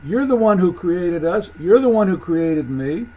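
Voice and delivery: insistent accusation; emphatic, pressing reproach; Cain blaming God. Acted. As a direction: put the blame on the maker. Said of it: "So Cain is saying".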